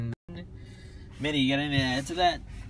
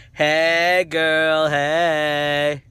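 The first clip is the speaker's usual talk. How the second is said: loud, drawn-out greeting; big mock-sassy shout; playful call-out; 2 semitones higher, 8 dB louder, much slower than usual. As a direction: holler it and stretch every word.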